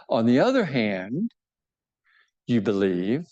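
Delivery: slow, breathy aside, no voice; hushed lecturer's aside; whisper. Acted. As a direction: drop to a whisper for the contrast. Whispered turn in the argument.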